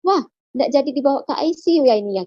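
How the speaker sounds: quick, mildly surprised doctor; dokter kaget. Retold or imitated. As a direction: imitate a startled doctor, speaking fast. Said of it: "dokter kaget". (menirukan dokter yang agak kaget, cepat)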